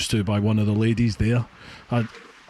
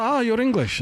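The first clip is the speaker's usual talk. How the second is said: mock delight; 11 semitones higher than usual. Retold petrol station lady's delight.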